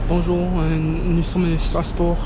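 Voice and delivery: foreign accent in French. Real, not acted.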